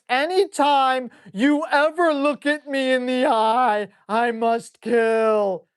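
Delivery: lightly voiced robotic dog, slow at the end; a hint of a menacing dog voice; dumb dog's thoughts. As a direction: play the dog as a mindless killing machine. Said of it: "he just thinks".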